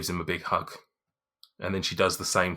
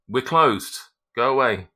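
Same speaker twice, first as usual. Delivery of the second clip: gruff shopkeeper; 5 semitones higher, 8 dB louder, slower than usual. Acted. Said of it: "a familiar male voice ... just going".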